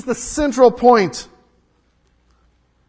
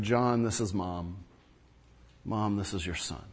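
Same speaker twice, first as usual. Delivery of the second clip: tender quiet quote; 11 semitones lower, 12 dB quieter than usual. Retold or imitated. Jesus speaks from the cross.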